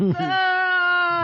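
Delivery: high clipped cartoon baby; baby voice pausing the take. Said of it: "and I'd be like".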